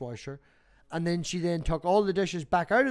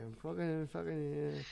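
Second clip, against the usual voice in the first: sputtering retold reply; 9 dB quieter, slower than usual. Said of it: "I said".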